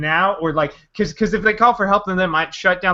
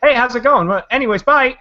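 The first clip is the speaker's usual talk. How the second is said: breezy interviewer; 6 semitones higher, 4 dB louder than usual. Retold or imitated. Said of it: "'cause it's just like".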